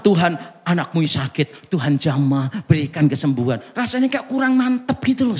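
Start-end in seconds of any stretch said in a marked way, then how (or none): 0.0-3.6 plain prayer. Retold or imitated. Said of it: "Kalau didoakan biasa".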